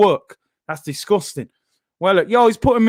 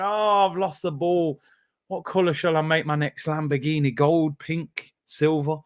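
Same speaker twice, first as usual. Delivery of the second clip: mock careless star; 3 semitones lower, 6 dB quieter than usual. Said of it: "He's probably going".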